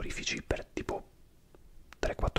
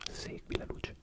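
slow whisper fading softer with each repeat; soothing trigger; 9 dB quieter, slower than usual. Shown as a demonstration. ASMR trigger for a viewer, slow fading whisper. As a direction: lull the listener, trailing off gently. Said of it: "potrei dirti di provare a seguire la luce".

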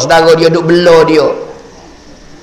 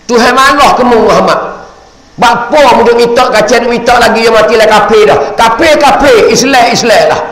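stern angel rebuke; 5 semitones higher than usual. Acted. Jibril rebuking again.

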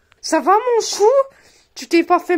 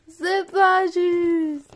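very slow tearful moan; slow whine; much slower than usual.

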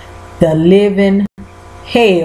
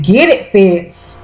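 cheering; slower than usual. Real, not acted. To the viewers, cheering Fitz on. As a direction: hype shout at the screen. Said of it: "I was like".

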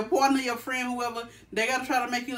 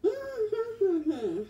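straining hum, mouth full; holding water in, near laughing; water held in mouth; 6 semitones higher, much slower than usual. Real, not acted. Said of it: "You swallowing it, huh?".

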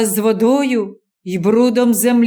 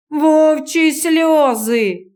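slow, scornful grumble from the crowd; grumbled; 4 semitones higher, much slower than usual. Acted. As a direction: drag out the sneer. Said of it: "буркнув хтось позаду".

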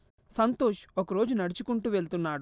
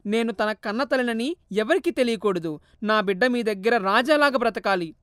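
tearful refusal; 4 semitones higher, 5 dB louder than usual. Acted. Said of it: "ఏడుస్తూ".

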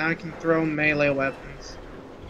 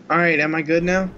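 glitchy robotic voice; 7 dB louder, faster than usual. Real, not acted. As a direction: voice crackling with lag. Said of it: "No, he's still a robot".

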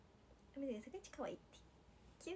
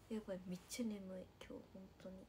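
soft, drowsy murmur; sleepy; 4 semitones lower, 4 dB quieter, faster than usual. Real, not acted. Idol admits to viewers she is very sleepy, drowsy. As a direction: let the voice sink with tiredness.

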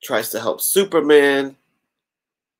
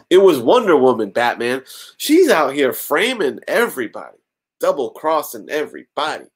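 higher, mock-indignant tattling; exaggerated finger-pointing, raised pitch; hammed-up accusation; 4 semitones higher than usual. Lois lying to Batman about Wonder Woman, hammed-up accusation.

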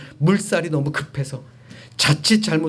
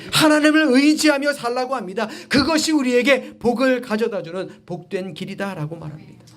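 emphatic preaching; 8 semitones higher than usual. Real, not acted. Preacher urging congregation to rely on God, emphatic preaching. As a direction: launch high, then ease down.

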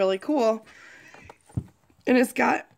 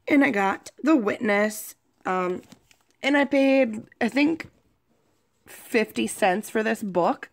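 sick voice with a cold. Real, not acted. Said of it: "so I sound like a gruff, mean old Grinch".

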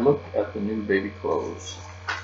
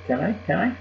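high, eager pleading; high-pitched childish begging; 9 semitones higher, faster than usual. A narrator's reading. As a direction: beg like an excited kid.

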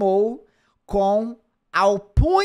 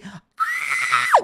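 mock scream; 5 semitones lower than usual. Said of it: "você deu um grito assim".

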